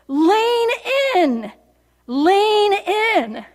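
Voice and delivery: high, loud retold shout of a command; imitated yell. Preacher acts out guide Ted yelling to the rafters, imitated yell. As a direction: call it out like a raft guide over rapids. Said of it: "starts yelling out. He says".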